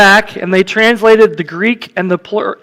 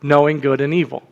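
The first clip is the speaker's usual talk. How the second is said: serpent's words read. Acted. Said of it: "The serpent said to the woman".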